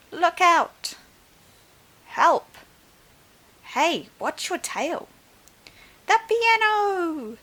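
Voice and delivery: high, loud panicked cries; alarmed shouts. Acted. Dancers shouting as the dinosaur's tail swings, panicked shouts. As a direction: yell warnings as things crash.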